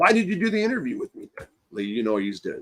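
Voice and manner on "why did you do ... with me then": whining, aggrieved, pitched-up voice. Retelling what someone said after an interview: imitating a whiny complaint. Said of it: "he was whiny about".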